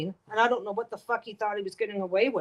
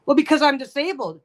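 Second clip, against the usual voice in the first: louder, self-righteous excuse; entitled whine; 2 semitones higher, 7 dB louder than usual. Retold or imitated. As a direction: play the disability card smugly. Customer justifying himself.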